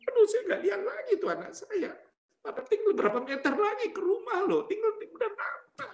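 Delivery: high-pitched wailing complaint; tearful lament. Retold or imitated. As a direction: act out crying over the child just out of reach. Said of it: "saya bisa nangis".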